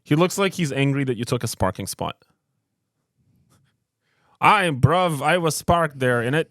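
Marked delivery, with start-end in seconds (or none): 4.4-6.5 mock London chav complaint. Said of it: "That's how he talks like a chav".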